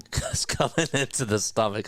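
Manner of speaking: words broken up by laughter; amused, laughing delivery. Real, not acted. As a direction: still giggling at the phrase. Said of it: "I'm laughing".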